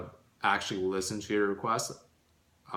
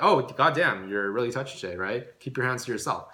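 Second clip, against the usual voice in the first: light joking rebuke. Shown as a demonstration. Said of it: "a light and or humorous response".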